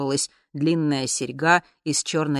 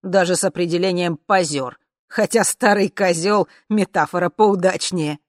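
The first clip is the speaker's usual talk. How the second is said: louder, brash agreement; loud declaration; 2 semitones higher, 6 dB louder than usual. Acted. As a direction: announce it for all to hear. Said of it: "громко заявил он". (громко, нагловато)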